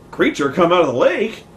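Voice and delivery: lightly acted movie-style echo of a caller; movie phone repeat. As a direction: repeat it aloud as if from a phone call. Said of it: "people repeat the things they hear on the phone".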